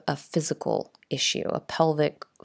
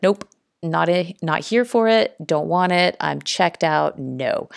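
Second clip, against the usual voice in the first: light mock rejection, punched louder; dismissive refusal; 4 dB louder than usual. Imagined listener turning down strange new information, mock-dismissive. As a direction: rattle off a curt imitated brush-off.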